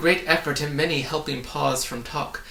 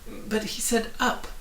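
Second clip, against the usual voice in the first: much higher, aggrieved whine; bitter complaint; 10 semitones higher than usual. A narrator's reading. Milo sprawled in the pit, complaining bitterly. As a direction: protest the betrayal. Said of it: "Milo complained bitterly".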